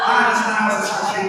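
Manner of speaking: loud laughing aside; presenter laughing at the unruly sheep; laughing exclamation. Real, not acted. Sheep misbehaving on stage.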